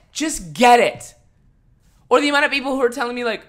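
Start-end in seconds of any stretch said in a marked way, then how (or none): 0.1-1.1 slow mocking repeat. Mocking a commenter's advice.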